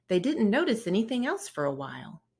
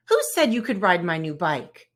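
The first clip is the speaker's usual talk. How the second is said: louder indignant demand; still shouting; 6 dB louder than usual. Acted. Brother confronting Fred about borrowing the bike, angry. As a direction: keep the anger up. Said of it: "shouted brother".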